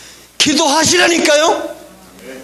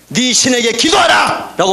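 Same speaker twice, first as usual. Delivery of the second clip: shouted command. Retold or imitated. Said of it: "흔들려 깨우면서".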